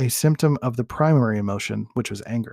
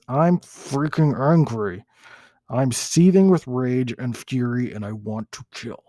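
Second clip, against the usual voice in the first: monster voice. Shown as a demonstration. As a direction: play the angry monster, slow and heavy. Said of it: "That's my monster voice".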